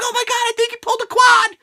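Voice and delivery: high gasping fan voice; mock worried fans. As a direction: play the panicking internet. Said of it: "everybody's like".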